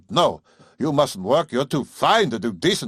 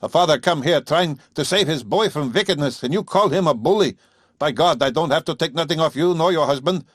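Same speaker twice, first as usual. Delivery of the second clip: much higher, louder contemptuous farmer's tirade; sneering rant; 6 semitones higher, 4 dB louder than usual. Acted. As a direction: sneer the whole tirade at city women. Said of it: "and sneered".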